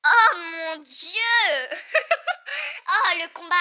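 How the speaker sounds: very slow, loud oh mon dieu then laugh; thrilled at the fight to come; hyped drawn-out cry with a laugh; excited outcry. Real, not acted. Excited reaction to big fight.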